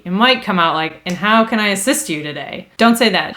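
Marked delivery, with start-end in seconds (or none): 1.1-2.7 snarky. Shown as a demonstration. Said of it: "it'll sound a little snarky".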